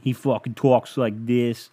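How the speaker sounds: botched attempt at a Boston accent that lands in Brooklyn; bad Brooklyn accent. Imitating a Boston guy he follows, bad Brooklyn accent. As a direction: put on a clumsy Brooklyn accent. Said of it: "it was a Brooklyn accent".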